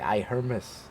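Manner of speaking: a mock little lament, said softly; sad manager. Manager sorry to lose him, imitated mild sadness. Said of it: "She was sad".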